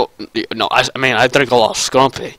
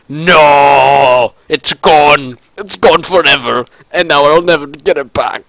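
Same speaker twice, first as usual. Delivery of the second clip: mock despair; 3 dB louder than usual. Mourning a destroyed computer.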